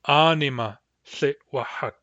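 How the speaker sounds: Anima Tlitwahak said slowly and clearly; slow model phrase. Shown as a demonstration. Teacher modelling a phrase for practice, slowly. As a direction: give each word of Anima Tlitwahak space. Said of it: "for example".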